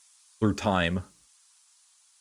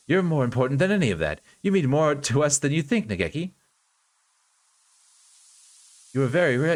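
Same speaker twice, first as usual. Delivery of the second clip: earnest caretaker reassuring; 2 semitones higher, faster than usual. Acted. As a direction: insist he matters, rising warmly.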